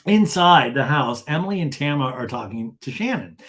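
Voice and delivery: ordinary delivery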